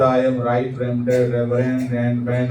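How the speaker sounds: slow, drawn-out self-important title; mock pompous official; pompous boast. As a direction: announce the title slowly and grandly. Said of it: "खड़े होते ही बोलता".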